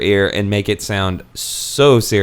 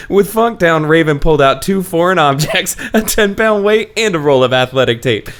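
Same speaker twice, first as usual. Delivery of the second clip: dramatic reading; 4 semitones higher than usual. Pretend. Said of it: "debut a new dramatic reading segment".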